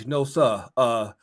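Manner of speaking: mock-courteous Southern gentleman, slowed; drawn-out genteel politeness, lightly put on; prim polite gentleman. Mocking the coach's new Southern manners.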